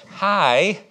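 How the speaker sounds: mock-pleasant phone greeting; put-on friendliness. Frustrated parent picking up the phone, put-on friendliness. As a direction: switch to a polite act for the caller. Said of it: "we can put an act on in front of people".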